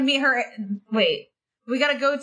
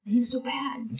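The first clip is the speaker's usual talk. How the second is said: whispering; 2 semitones higher, 5 dB quieter than usual. Pretend. Mock pity about donations.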